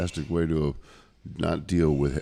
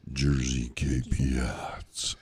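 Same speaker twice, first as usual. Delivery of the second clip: slow, breathy whispered sultry read; deep sexy voice; 3 semitones lower, much slower than usual. Pretend. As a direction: purr the name slowly like a seduction. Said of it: "And do it in your deep, sexy voice".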